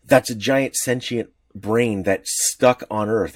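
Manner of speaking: usual speaking voice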